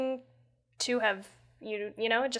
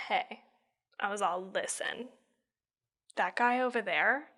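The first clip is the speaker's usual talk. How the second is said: hushed secret; 2 semitones lower, 6 dB quieter than usual. Retold or imitated. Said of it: "I straight up was like".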